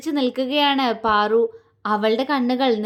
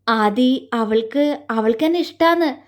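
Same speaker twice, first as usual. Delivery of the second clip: happily. A narrator's reading. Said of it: "സന്തോഷത്തോടെ പറഞ്ഞു".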